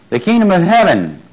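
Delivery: "heaven" lifted high and leaned on; preacher reading scripture, pressing the word heaven; stress on heaven. Shown as a demonstration. Preacher stresses "heaven" to his class. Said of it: "I'm emphasizing the word heaven".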